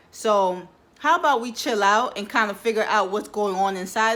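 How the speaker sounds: lightly acted, fed up with her owner's partying; fed-up vagina's monologue. Vagina confronts its party-loving owner, lightly acted fed-up monologue. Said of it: "perspective of your vajayjay, your vagina".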